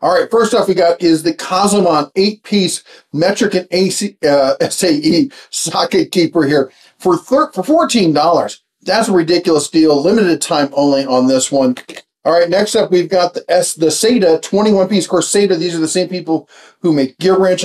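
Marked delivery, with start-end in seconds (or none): 0.0-11.8 talking around a cough drop; marbles in mouth. Real, not acted. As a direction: mouth full, words a bit thick. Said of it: "If I sound like I have marbles in my mouth".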